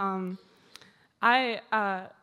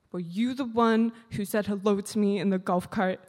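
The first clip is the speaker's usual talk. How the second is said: mock stern question; 4 dB louder than usual. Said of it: "looked very sternly at me".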